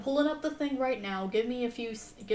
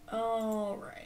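whispered aside. Real, not acted. Streamer mutters while fixing settings.

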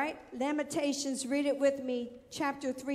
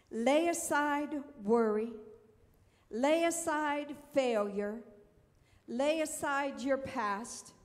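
slow preaching; slower than usual. Acted. Preacher repeating commands slowly.

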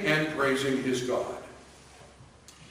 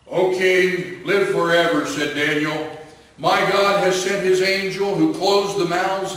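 louder, confident reply; calling up from the den; 3 semitones higher, 5 dB louder than usual. Acted. Daniel to the king, loud and reassuring.

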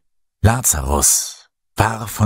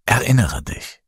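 gentle urging, a little higher; 4 semitones higher than usual. A narrator's reading. Jesus urges Lazarus to remember, gently. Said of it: "sagte Jesus sanft".

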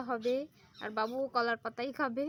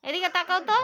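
coaxing call; 5 semitones higher, 11 dB louder than usual. Real, not acted. Calling child to look.

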